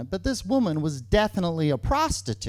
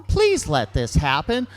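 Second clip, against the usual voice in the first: more insistent, punched mock plea; pleading; 4 semitones lower, 5 dB louder than usual. Boyfriend begs his girlfriend to allow it, insistent pleading. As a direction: beg with a hard push on please. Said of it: "with these pleading eyes, like".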